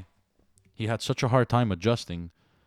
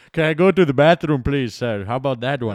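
loud, high mock Italian kid; hammed-up Italian accent, loud and high; 3 semitones higher, 8 dB louder than usual. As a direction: ham up a Montreal Italian. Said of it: "what I was expecting him to say".

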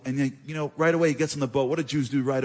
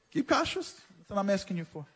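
the Rav pleading; 4 semitones higher, 4 dB quieter than usual. Retold or imitated.

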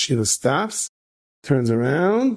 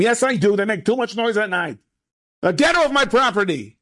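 put-on higher, gruff heavy Russian accent; 9 semitones higher than usual. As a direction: chase him off in a Russian accent. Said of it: "he's speaking with a heavy accent, heavy Russian accent".

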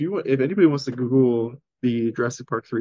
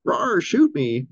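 dinosaur voice; 6 semitones higher, much slower than usual. Retold or imitated. Velociraptor voiced by friend.

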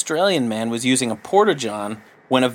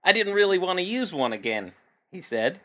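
put-on Australian accent; 3 semitones higher than usual. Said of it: "Australian accent".

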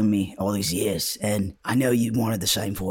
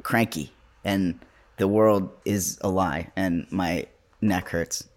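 apathetic; slower than usual. Real, not acted. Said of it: the speaker calls themselves apathetic today.

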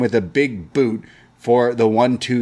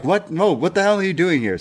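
higher, faster startled protest; mock outraged Booker; 7 semitones higher than usual. Scene: Booker yells at Gacy crashing the desk, higher, fast mock outrage. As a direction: toss out the uninvited guest. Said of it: "And Booker's like".

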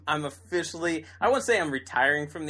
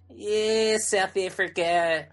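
bad South African accent, slow; hammed-up South African accent; 5 semitones higher, 3 dB louder, much slower than usual. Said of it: "the worst South African accent I've ever heard".

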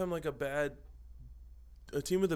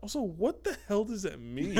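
laughing; 7 semitones higher than usual. Real, not acted. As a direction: burst out laughing. Group cracking up.

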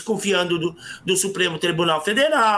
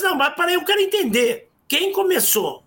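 retelling own question; 8 semitones higher than usual. Retold or imitated. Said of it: "Aí eu disse".

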